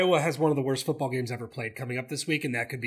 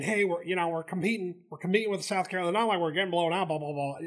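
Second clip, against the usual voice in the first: mock the coach's excuses lightly; lightly imitating Jimbo; 3 semitones higher, faster than usual. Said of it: "Are you shaking your head at my accent, my Jimbo?".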